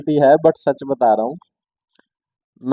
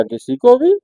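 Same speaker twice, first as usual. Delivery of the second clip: shocked question; 9 semitones higher, 4 dB louder than usual. Retold or imitated. Mock disbelief at broker.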